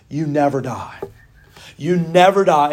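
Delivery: quoted preacher emphasis; stress on never. Retold or imitated. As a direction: punch "never" both times. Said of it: "She goes".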